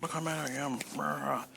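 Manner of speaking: hammed-up fake fury at the mic; mock rage. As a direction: pretend to be furious, playing it up. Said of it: "The rage I feel is just like".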